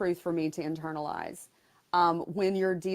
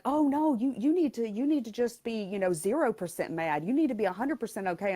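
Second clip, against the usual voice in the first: much higher, pushy know-it-all voice; mock insistent advice; 5 semitones higher than usual. Someone insisting the patient be fully okay, mock bossy. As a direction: lecture her like a bossy well-wisher. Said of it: "they're like".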